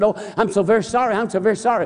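high, fast, flustered apology; flustered operator. Retold or imitated. Embarrassed operator apologizing to the preacher, high and rushed.

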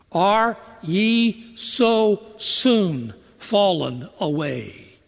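slow, sorrowing plea as the apostle; sorrowful Paul. Acted. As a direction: mourn the words slowly, heartbroken. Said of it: "You feel the sadness in his voice?".

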